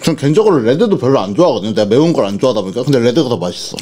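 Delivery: chewing while talking; talking with cheeks stuffed; mouth full of food. Real, not acted. Seen 4: Cheeks bulge, jaw moving through labelled words; R frames show empty mouth.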